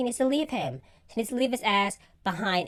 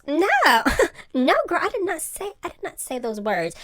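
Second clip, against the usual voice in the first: laughing denial; 7 semitones higher than usual. Retold or imitated. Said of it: "Karen goes".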